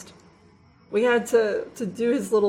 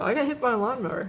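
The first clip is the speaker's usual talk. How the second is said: softer, offhand imitation of a boy; retold casual mention; 3 semitones higher, 5 dB quieter than usual. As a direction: toss it out casually, like it's nothing. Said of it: "He'll just, like, casually mention it".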